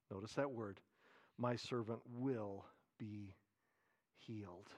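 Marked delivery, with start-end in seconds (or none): 1.4-4.7 soft, humble request to a master; hushed humble plea. Acted. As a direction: say it quietly, as a soldier trusting his lord. Centurion's request continues after aside.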